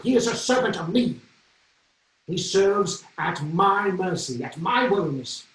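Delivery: Henry declaring who owns the cardinal; royal outburst. Retold or imitated. King Henry ranting.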